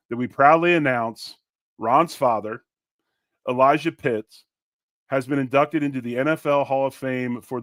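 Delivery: reading a tribute statement aloud; measured, formal read of an announcement. Acted. Host reads the family's announcement to his co-host, formal and measured.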